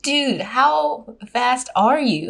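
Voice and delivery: drawn-out, impressed question; retold amazement. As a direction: stretch it out, mock-astonished. Retold amazement at his speed.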